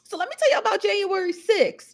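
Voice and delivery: high-pitched hood news delivery; high, drawn-level mimicry of a hood commentator; hood newscaster. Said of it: "she do it in a hood way".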